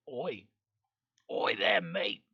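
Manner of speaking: attempted Australian greeting; lightly put-on Australian accent. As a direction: try out a casual Australian "mate".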